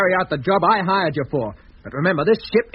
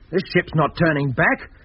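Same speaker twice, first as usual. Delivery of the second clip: slow, stubborn, every word set down; defiant refusal; slower than usual. Acted. Owner refusing the captain's order to turn the ship back, slow and stubborn. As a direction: refuse flatly and take your time.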